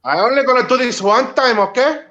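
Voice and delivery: put-on Mexican-accented English. Shown as a demonstration. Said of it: "you gotta do the Mexican".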